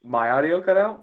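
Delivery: surprised question. Real, not acted. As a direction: ask it back in surprise, rising at the end. Told the audio cut out.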